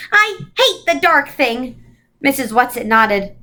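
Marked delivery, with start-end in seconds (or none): 0.1-1.8 passionate cry. Acted. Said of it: "cried passionately".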